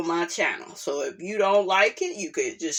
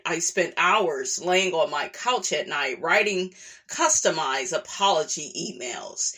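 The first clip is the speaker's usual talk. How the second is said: reading a document aloud; 3 semitones lower than usual. Acted. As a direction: read it like a heartfelt statement. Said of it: "back to my reporter voice".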